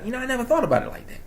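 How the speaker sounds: high, quick mimicked viewer; amazed viewer. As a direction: imitate a listener suddenly having a realization. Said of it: "you be like".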